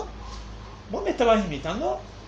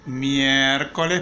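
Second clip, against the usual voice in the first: slow dictation; 4 semitones lower, much slower than usual. Shown as a demonstration. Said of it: "ponemos acá".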